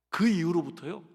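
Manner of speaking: ordinary delivery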